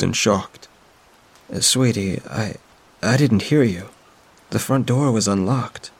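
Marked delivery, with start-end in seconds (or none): 1.5-5.9 a hint of a kind older woman, soothing; lightly voiced friend, gently puzzled. Friend insists the door was open, lightly voiced and soothing.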